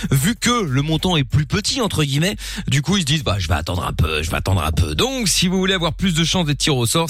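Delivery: upbeat radio presenter read; radio host. Acted. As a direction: pitch the contest to listeners. Radio host game and sports.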